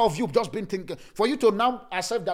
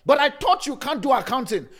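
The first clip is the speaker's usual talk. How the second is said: shocked boss; 6 semitones higher, 5 dB louder than usual. Retold or imitated. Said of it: "your boss is shocked".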